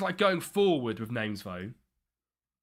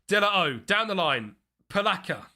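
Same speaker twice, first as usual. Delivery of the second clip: higher-pitched live football commentary; excited commentary; 5 semitones higher, 4 dB louder than usual. Real, not acted. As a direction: call the attack as it builds. Live commentary on own game.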